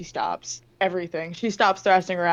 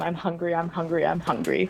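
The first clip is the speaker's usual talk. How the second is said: ordinary talk, nothing marked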